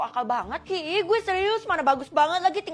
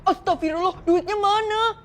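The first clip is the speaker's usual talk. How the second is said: panicked gasp; 5 semitones higher, 5 dB louder, slower than usual. Acted. Guard panics over money.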